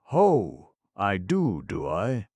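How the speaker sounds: high, loud mocking sneer; mocking villain. The villain waking to taunt the intruders, loud high sneer. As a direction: jeer at them as you sit up.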